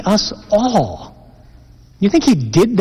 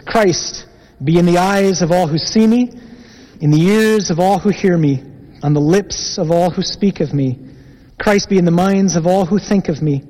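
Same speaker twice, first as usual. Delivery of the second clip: prayer. Acted. Leads a prayer.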